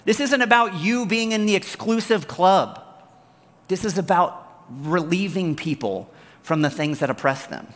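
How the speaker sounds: high, incredulous scolding; exasperated Jesus. Acted. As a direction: push back in disbelief at their pettiness.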